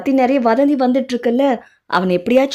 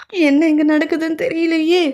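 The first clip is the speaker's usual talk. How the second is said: hushed, slow whispered aside; confused whisper; 7 semitones higher than usual. Acted. A bystander whispers to himself, baffled by the argument. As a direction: mutter it under your breath, baffled. Bewildered aside amid family quarrel.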